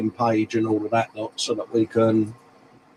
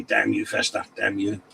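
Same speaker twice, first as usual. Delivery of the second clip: mock curse at the telly; 5 semitones lower, 7 dB quieter than usual. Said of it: "giving it one of those at the telly".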